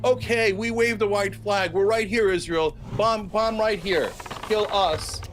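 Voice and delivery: lightly voiced mock surrender, pleading; mock Hamas surrender. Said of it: "is gonna come out and go".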